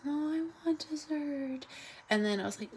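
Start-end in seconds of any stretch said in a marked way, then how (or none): 0.0-1.7 put-on higher little-girl voice begging for dessert; imitating toddler. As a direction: mimic a small child insisting. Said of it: "she's very little".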